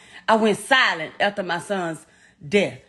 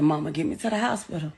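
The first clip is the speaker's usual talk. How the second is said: calm and quiet; 6 semitones lower, 6 dB quieter, faster than usual. Retold or imitated. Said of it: "He never panicked. He said".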